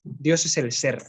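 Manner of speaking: slow, deliberate dictation pace. Shown as a demonstration. Teacher dictating a key phrase to the class, slowly. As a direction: say it slowly so students can write it. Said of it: "apuntaos bien".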